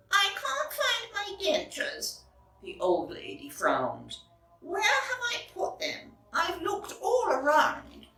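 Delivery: put-on high, fretful old lady; searching and a bit frowning.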